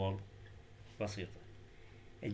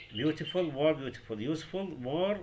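slow examples; 3 semitones higher, much slower than usual. Shown as a demonstration. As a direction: draw out each English example slowly and clearly. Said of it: "مثال". (نطق الأمثلة ببطء)

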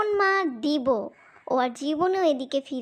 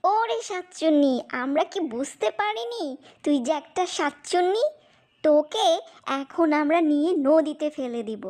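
angry. Acted. Children confront trapped witch.

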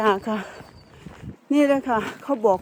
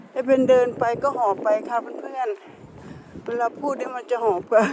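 gasping lightly between words as she walks; out of breath from walking; slower than usual. Real, not acted.

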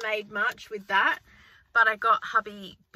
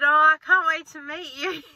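high, loud imitated gush; acted-out excitement, pitched up; delighted caller; 6 semitones higher, 6 dB louder than usual. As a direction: gush like an eager new acquaintance.

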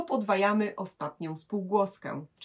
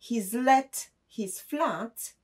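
slow example; 4 semitones higher, much slower than usual. Shown as a demonstration. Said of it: "jeszcze jeden przykład".

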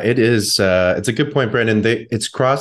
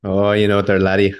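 put-on light stab at a Celtic accent; unidentifiable accent. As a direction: slip into a vague, half-hearted accent. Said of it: "I don't know what accent that was".

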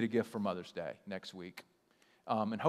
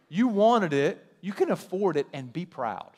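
higher and louder, pointed retort; calling it out; 6 semitones higher, 8 dB louder than usual. Real, not acted. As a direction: nail them with it, loud and high. Preacher calls out the excuse.

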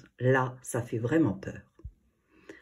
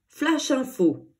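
much higher, slow, punchy Flash info; radio announcer; 8 semitones higher, slower than usual. A narrator's reading. The radio presenter interrupting the music, announcer voice. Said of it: "annonce le présentateur".

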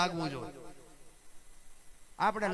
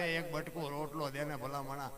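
beggar's plea; 6 semitones lower, 8 dB quieter than usual. Retold or imitated. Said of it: "બિચારા માગણ".

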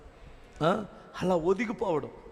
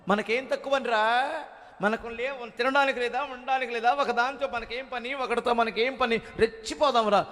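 put-on higher, cocky parent egging the child on; boastful parent; 5 semitones higher than usual. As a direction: puff up like a proud parent who lacks nothing. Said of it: "అని పెట్టావంటే".

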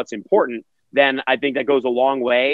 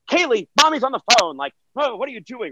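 put-on hushed mom to kid; 9 semitones higher than usual. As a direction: shoo the kid away without the call hearing.

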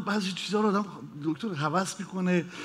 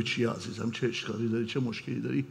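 lower, softer therapist voice; mock-soothing therapist; 7 semitones lower, 8 dB quieter than usual. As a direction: coo at the patient like a gentle shrink.

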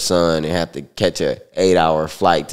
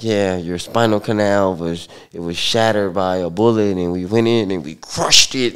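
lightly imitated Russian accent; a hint of a thick Russian accent. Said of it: "she had her little thick Russian accent".

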